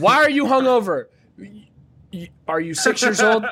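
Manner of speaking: high, whiny questioning officer voice; mocking nagging officer. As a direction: mimic a pestering agent. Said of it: "asking me questions".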